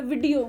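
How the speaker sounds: वीडियो said vi-di-o with a short "i"; don't stretch the first syllable of वीडियो; clipped "vi" to open वीडियो; short first vowel. Shown as a demonstration. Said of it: "छोटी की मात्रा होती है".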